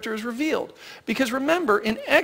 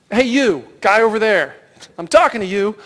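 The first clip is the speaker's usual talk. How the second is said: mock call out; 5 dB louder than usual. Calling out a nameless person.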